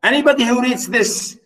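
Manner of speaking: lightly acted appeal against being judged; narrator addressing reader. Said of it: "He's saying".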